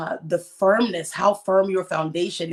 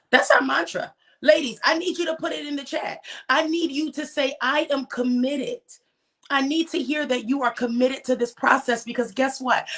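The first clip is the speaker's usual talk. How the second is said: higher, fast, eager urging; rallying call; 6 semitones higher than usual. Real, not acted. Host urging ladies to type commitment, eager rallying call. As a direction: fire up the audience to respond.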